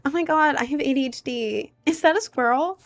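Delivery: high, ditzy mock voice; squealing squirrel-distracted mockery; mocking TikTok ADHD girl. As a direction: parody a quirky social media poster. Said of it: "they're like".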